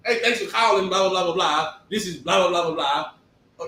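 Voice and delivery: polite customer-service voice, lightly done; a hint of the office phone voice; phone work voice. Answering calls at work in a lightly polite voice. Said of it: "I gotta use that other voice".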